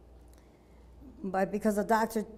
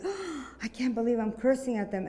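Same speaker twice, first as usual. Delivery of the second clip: mildly shocked inner voice, slightly raised; retold shock; 3 semitones higher than usual. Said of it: "I was so shocked".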